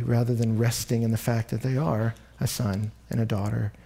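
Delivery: earnest spoken prayer to God. Real, not acted. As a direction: pray over the congregation, sincere and steady. Leads a closing prayer.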